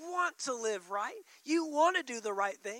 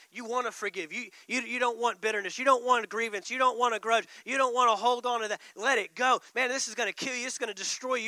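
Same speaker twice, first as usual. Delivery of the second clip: spirit man voice; 4 dB louder, faster than usual. Acted. Inner spirit man urging the believer, casual coaxing. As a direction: talk your friend out of a grudge. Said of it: "Your spirit man on the inside is saying".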